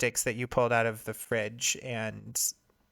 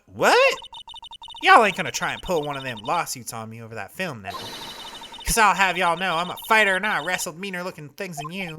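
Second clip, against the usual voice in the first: Southern photographer; 4 semitones higher, 5 dB louder than usual. Acted. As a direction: scold them like an offended country gal. Voices Lotta.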